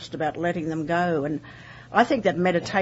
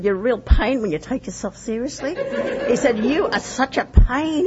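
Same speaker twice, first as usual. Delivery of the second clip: laughing while quoting him, higher and louder; 6 semitones higher, 5 dB louder than usual. Real, not acted. Laughing as she quotes Cyril's teasing. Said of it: "and I burst into laughter".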